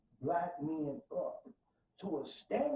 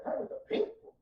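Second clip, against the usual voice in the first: high voice of God. Acted. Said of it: "He said".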